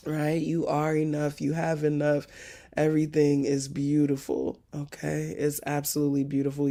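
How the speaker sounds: calm them down; reassuring. Real, not acted. Soothing reassurance.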